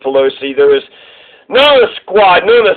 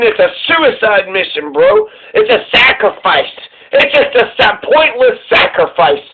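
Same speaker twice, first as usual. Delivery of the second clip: mock protest; 4 semitones higher than usual. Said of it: "So they were saying".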